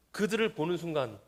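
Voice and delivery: ordinary delivery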